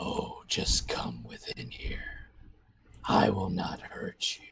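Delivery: deep, low, rasping, rumbling, grating voice. A game master voices a presence speaking into a player's mind, deep, rumbling, grating voice. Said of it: "a deep, rumbling, kind of grating voice saying".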